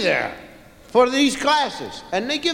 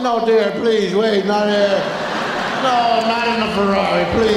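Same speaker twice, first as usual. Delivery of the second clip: pleading; 3 semitones lower than usual. Acted. Begging wife not in Ferrari.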